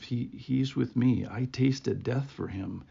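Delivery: a hint of Jesus, quiet and sure; Jesus's voice. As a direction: speak it gently, standing up for him. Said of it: "this voice of".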